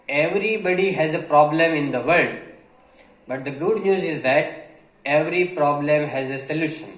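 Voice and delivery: reads the English line very slowly, word by word; slow dictation reading. Acted. Teacher reading a passage slowly to Gujarati learners. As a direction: spell it out slowly for the students.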